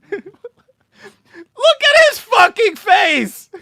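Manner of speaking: slow shout broken by laughter; laughing shout. Real, not acted. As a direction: yell while cracking up laughing. Laughing at clip.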